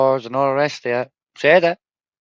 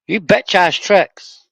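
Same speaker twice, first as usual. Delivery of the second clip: sneering insult; 7 semitones higher, 6 dB louder, slower than usual. Acted.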